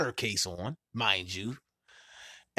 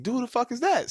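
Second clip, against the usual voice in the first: a mild mock outburst, pitched up; retelling his angry "what is that" to his girlfriend; retold outburst; 12 semitones higher than usual. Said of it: "I'm like".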